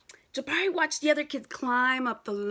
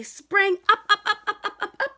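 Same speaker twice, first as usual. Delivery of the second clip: higher and louder with each up; rising up; 7 semitones higher, 8 dB louder than usual. Acted. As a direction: bounce the ups high and loud. Voicing the jump upward.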